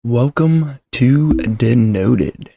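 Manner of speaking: ordinary talk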